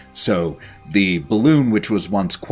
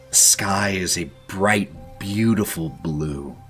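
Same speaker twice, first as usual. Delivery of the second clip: game master scene narration; 2 semitones lower, 4 dB quieter than usual. A narrator's reading. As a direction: paint the landscape gently. GM describes the scene.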